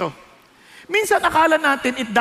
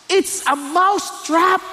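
higher, slow, scared reveal; frightened mouse; 6 semitones higher, much slower than usual. Acted. Preacher telling the mouse story, voicing the scared mouse. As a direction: let the fear show as the mouse sees the trap.

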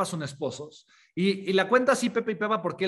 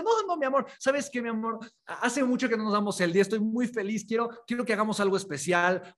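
flustered wife; 2 semitones higher than usual. Retold or imitated. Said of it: "en la cocina hace".

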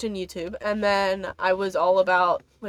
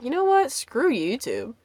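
dismissive; 3 semitones higher, slower than usual. Retold or imitated. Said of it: "I was like".

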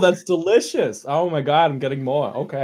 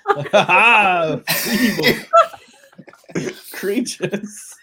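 gloating villain laugh; 6 semitones higher, 3 dB louder, much slower than usual. Acted. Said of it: "I'm also making sound effects".

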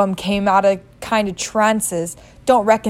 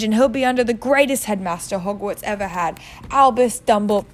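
growled. Acted. Hagrid growls at Vernon defending Harry's schooling. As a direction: growl it down at the muggle. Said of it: "growled Hagrid".

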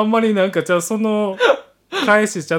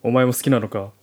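lower, curt soldier voice; gruff soldier; 7 semitones lower than usual. Acted. Soldier welcoming the heroine home, gruff and curt. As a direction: play a tough guy hiding embarrassment.

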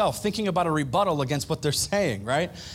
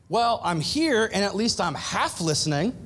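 smug excuse; 3 semitones higher than usual. Retold or imitated. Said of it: "That's what I said".

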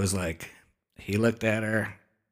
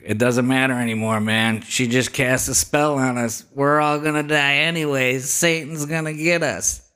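rising, louder despairing cry; mock doomed panic; 4 semitones higher, 4 dB louder than usual. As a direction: build into hammed-up doom. Friend's doomed panic acted out.

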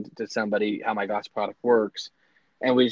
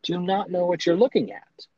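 incredulous; 7 semitones higher than usual. Retold or imitated. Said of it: "I was like".

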